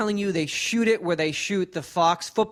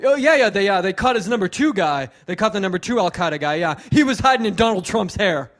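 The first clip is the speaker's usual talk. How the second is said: imitating hack comic; 4 dB louder than usual. Comic mimics the warm-up guy's dated news jokes, eager. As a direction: pitch the stale topical bit with fake excitement.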